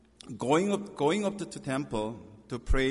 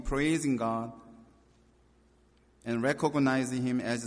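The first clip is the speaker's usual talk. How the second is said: scripture reading. Acted. Pastor reading Acts to his congregation, earnest and raised. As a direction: proclaim the passage to the congregation.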